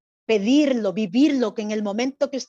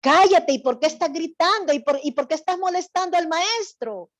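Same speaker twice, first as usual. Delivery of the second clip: loud, higher scolding of the beggar; Pharisee scolding; 4 semitones higher, 5 dB louder than usual. Shown as a demonstration. Showing the child playing the Pharisee how to hush the beggar, loud scolding. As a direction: shut him up, sharp and rising. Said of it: "Y va a empezar a decir".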